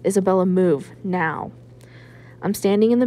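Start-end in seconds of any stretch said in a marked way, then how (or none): 0.0-1.5 louder, dad barking her name and the order; angry command. Acted. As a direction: snap "Isabella" hard, then "now" flat. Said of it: "fire in his voice".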